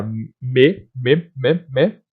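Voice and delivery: repeated "me" with the lips pressed for each m; bilabial M. Shown as a demonstration. Teacher showing how M is pronounced, separate "me" syllables. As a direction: close both lips on every "me". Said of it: "eu encosto os dois, ah, os dois lábios".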